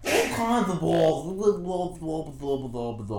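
hype call fading. Acted. Hyped intro then fading.

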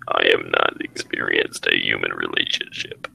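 low, stiff robot voice; lightly voiced robot. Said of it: "I could also do a robot voice".

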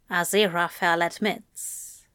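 plain reading voice

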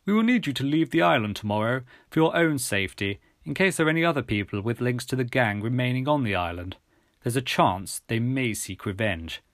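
lightly voiced official gentleman; a hint of a formal English gentleman; measured, mildly officious character voice. Gentleman gives instructions.

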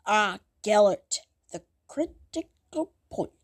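slow, hammed-up dramatic recital; mock letter reading. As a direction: parody yourself declaiming a solemn letter. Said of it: "I'm just reading the letter now".

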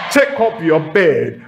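shouted retelling; booming sermon call; preacher's shout. Real, not acted.

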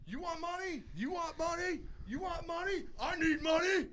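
very high-pitched mocking chant; mock squeal. Host mocking people who want handouts, squealing.

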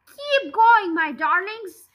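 breathless urging, pushed and loud; panting. Acted. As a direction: gasp it out while running. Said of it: "panted Mister Fox".

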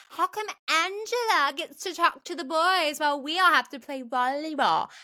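high, pronounced mock complaint; over-the-top theater acting. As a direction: overact it, stretching the big words. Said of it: "pronounced, I feel like everybody".

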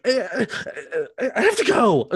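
high, laughing imitation of a fake sob; hammed-up teary line, half laughing; mock weepy actress. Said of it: "She's like".

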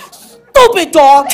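slow, spicy mock outburst; Puerto Rican spice. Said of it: "with that Puerto Rican spice".

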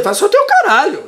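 laughing. Real, not acted. Mocking the request, laughing.

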